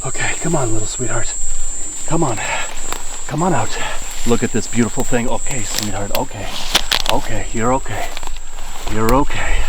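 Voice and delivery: calm the little animal; soothing. Real, not acted. Soothing the caught caiman.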